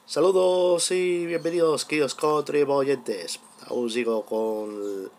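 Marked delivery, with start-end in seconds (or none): 3.7-5.1 scorched raspy throat; hoarse voice. Real, not acted. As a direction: speak through a sore throat. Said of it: "Aún tengo la garganta chamuscada".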